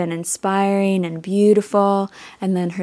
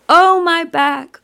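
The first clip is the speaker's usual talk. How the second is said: loud, high grieving wail; crying out in grief; 9 semitones higher, 6 dB louder, slower than usual. Retold or imitated. Grieving goddess cries out for her husband, wailing. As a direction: let the grief burst out on Oh. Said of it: "she's crying out".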